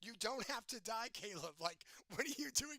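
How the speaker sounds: mock pleading, pitch lifted; pleading to convince. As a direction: act out talking someone out of it. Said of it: "trying to convince you".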